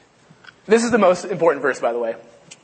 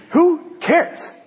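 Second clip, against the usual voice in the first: much higher, laughing who cares; laughing squeak; 13 semitones higher than usual. Real, not acted. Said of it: "preacher laughing off the smell".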